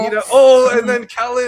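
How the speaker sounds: loud, high shouted race call; excited shout. Real, not acted. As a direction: yell the name as they surge.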